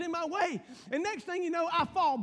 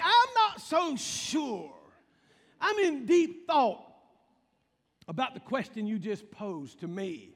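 pondering voice. Retold or imitated.

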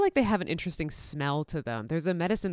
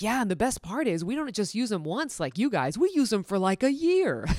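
playful boast; 5 semitones higher, 3 dB louder than usual. Retold or imitated. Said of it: "I'm like".

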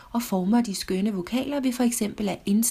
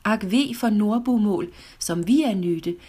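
measured poetry reading, slowing in the closing lines; poem recitation. Acted. Reciting Lord Byron's verse on Italian, measured poetic reading. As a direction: recite the verse line by line, drawing out the last words. Reads a translated poem aloud.

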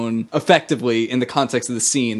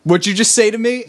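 retold challenge; 8 semitones higher, 3 dB louder than usual. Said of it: "And then she goes".

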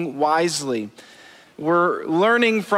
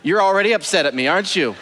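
mock calm down; 2 semitones higher than usual. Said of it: "Me just saying it to you".

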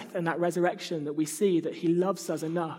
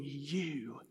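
soft whisper; 3 semitones lower, 7 dB quieter, much slower than usual. A narrator's reading. The Holy Spirit whispers.

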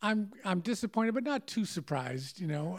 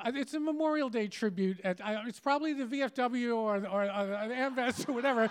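higher, breezy know-it-all assurance; confident know-it-all; 5 semitones higher than usual. Retold or imitated. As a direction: state it like an obvious fact. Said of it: "says in this very confident, knowledgeable way".

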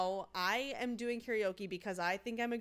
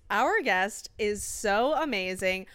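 announcer voice; 4 dB louder than usual. Acted. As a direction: introduce her like a game-show host. Announcing the guest on air.

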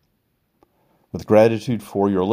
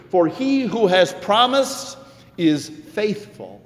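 slow solemn; 13 semitones higher, slower than usual. Acted. Slow solemn scripture line.

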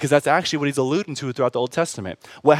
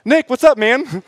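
much higher, louder, buddy-style hello; excited greeting; 9 semitones higher, 5 dB louder than usual. Retold or imitated. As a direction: hail an old friend in heaven. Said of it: "be like".

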